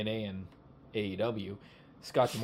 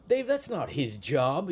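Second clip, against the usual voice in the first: slow, louder southern drawl imitating Jimmy Hart; southern accent; 3 semitones higher, 5 dB louder, slower than usual. Jimmy Hart telling Dave off, in a southern accent. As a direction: mimic a southern wrestling manager telling Dave off. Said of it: "he's got that southern accent".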